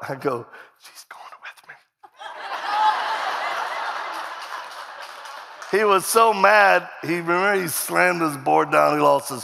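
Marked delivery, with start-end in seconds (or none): 0.8-1.7 hushed, voiceless aside; voiceless whisper to the doctor. Retold or imitated. 2.2-5.7 high, breathy, rising laughter; voiceless rising giggle; long airy laugh. Real, not acted. Long laugh after punchline.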